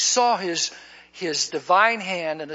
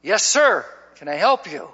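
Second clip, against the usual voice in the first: strong voice; 4 dB louder than usual. Retold or imitated. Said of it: "this strong, strong voice came back".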